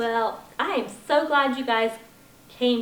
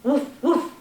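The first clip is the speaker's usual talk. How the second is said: barking dog; 5 dB louder than usual. Acted. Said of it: "said Dog".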